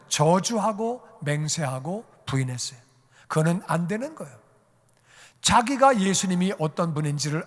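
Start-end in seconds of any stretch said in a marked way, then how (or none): none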